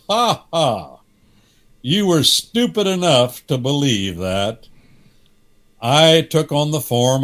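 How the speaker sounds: a lightly voiced mocking devil, laughing at the fool; hint of a laughing deceiver. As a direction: scoff and sneer at him. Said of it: "somebody else is heard to laugh".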